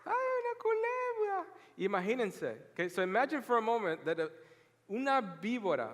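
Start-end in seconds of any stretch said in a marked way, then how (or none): 0.0-1.5 hammed-up fearful scream; mock scared shriek. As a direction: shriek like someone seeing a little snake. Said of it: "ya están gritando".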